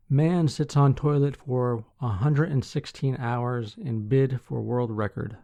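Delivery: measured newsreader delivery with firm sentence openings; news article read. Acted. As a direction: read the article out clearly to listeners. Reads out a news headline.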